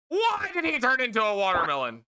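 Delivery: incredulous. Real, not acted. Bewildered by the game.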